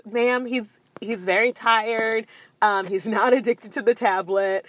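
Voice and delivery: restrained, polite retold reply; very nice voice. Mother answering TSA lady about tired child, very nice voice. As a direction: keep it nice and measured. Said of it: "in my very nice voice".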